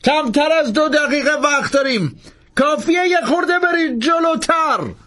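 high, pressing insistence; insisting Langdon. A narrator's reading. Langdon insisting the priest fly farther, high pressing voice. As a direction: keep urging him forward. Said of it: "لنگدان اصرار کرد".

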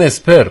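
"اسپر" said "es-per", with e vowels; others' pronunciation. Retold or imitated. Host reports how some say it, "اسپر" pronounced "esper". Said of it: "بعضی میگن".

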